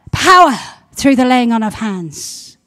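"Power" blasted out loud, rest dropping; loud declaration. Real, not acted. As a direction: shout the word "Power" then proclaim. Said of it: "repeated proclamation".

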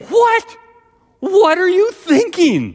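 high, loud cry of disbelief; aghast friends. Acted. Friends react to his bike ride, loudly aghast. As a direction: shriek it like horrified schoolkids.

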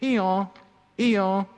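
light, lightly voiced hee-haw; a gentle storyteller's donkey bray. Donkey calls to people who only hear braying, lightly voiced. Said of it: "it sounded like he was only saying".

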